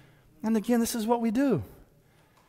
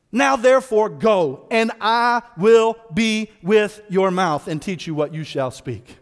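scripture reading; 3 dB louder, slower than usual. Acted. God's words read from scripture.

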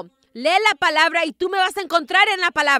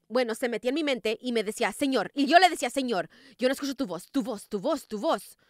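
mock whine; 3 semitones lower, 6 dB quieter, faster than usual. Retold inner voice, complaining to God.

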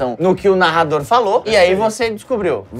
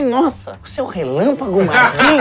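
high, amused disbelief; mock surprise; 4 semitones higher than usual. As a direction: act delighted and amazed. Retelling meeting the player.

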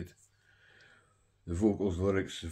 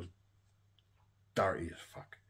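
whisper. Real, not acted. Whispered appreciation.

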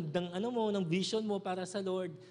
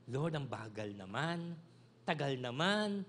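slow, lower mock whine of a bored kid; whining child; 5 semitones lower, slower than usual. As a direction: drag it out like a kid complaining. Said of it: "child whining to God".

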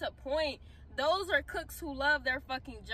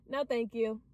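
smiling no; 5 semitones lower, 3 dB quieter than usual. Shown as a demonstration. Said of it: "with a smile on my face".

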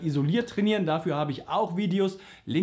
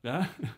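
voice crack; 5 dB quieter than usual. Shown as a demonstration. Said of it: "und dadurch hast du dieses ja".

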